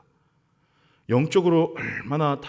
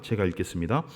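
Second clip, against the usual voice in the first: ordinary talk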